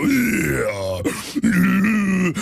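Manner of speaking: lightly voiced redneck. Shown as a demonstration. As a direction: mumble yeah like a silent redneck. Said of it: "They just go".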